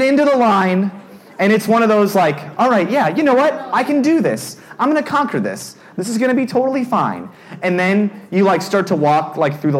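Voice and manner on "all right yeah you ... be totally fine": high-pitched, mildly hyped self-encouragement; self pep talk. Retold or imitated. Nervous rider psyching himself up in the line, retold pep talk.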